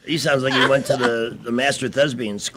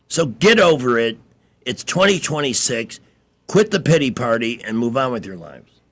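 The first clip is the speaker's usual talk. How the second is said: louder, exasperated rant; testy; 3 dB louder than usual. Real, not acted. Host lecturing listeners about discrimination, testy and louder. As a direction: lay down the law, fed up. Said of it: "I didn't mean to be testy there".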